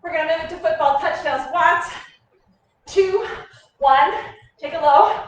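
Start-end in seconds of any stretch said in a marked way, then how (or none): 2.9-5.2 loud countdown call; barking gym coach. Real, not acted. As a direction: shout the count to the class.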